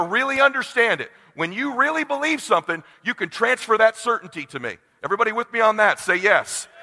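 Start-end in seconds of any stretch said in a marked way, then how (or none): 5.0-6.7 calling out. Real, not acted. Speaker calls on the audience.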